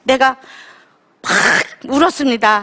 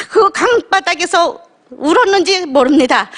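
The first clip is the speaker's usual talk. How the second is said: ordinary talk, nothing marked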